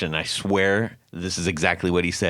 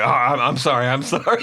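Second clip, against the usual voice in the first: sheepish apology; 5 semitones higher than usual. Retold or imitated. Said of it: "he's like".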